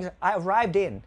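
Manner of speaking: ARRIVED IN run together, ending "din"; quick native linking. Shown as a demonstration. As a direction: link arrived in as a native speaker would. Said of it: "nếu người Tây đọc nhanh". (đọc nối nhanh arrived in như người Tây)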